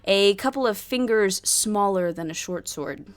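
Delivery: measured storyteller's scene-setting; game master narration. A narrator's reading. Game master describing a tavern fight pit, narration.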